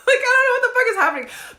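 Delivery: high, loud, laughing through the words; laughing bewilderment. Real, not acted. Storyteller reliving being grabbed naked, laughing bewilderment. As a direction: laugh helplessly at your own confusion. Laughs retelling own confusion.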